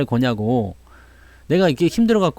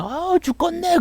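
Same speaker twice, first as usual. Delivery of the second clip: high-pitched groan of giving up; weary groan; 14 semitones higher, 3 dB quieter, slower than usual. Retold or imitated. 지친 등산객이 포기하듯 투덜대며 높은 신음. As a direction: whine it like you can't go on. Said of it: "그러면서 가는 거하고".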